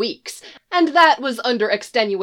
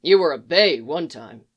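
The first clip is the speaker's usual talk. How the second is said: gruff Geralt; 3 semitones lower than usual. Acted. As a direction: keep it low and terse.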